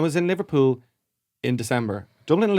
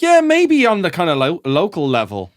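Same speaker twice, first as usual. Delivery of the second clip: bashful brag; 3 semitones higher, 6 dB louder, slower than usual. Retold or imitated. Telling an American fan his band is small, coyly. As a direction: play it down with mock modesty. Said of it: "I was like".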